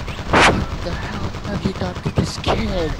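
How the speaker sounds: high, slow, appalled mom voice; shocked mom. Retold or imitated. Mom smelling her baby's head, high and appalled. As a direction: play the horrified mother, drawn out and high. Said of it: "she was like".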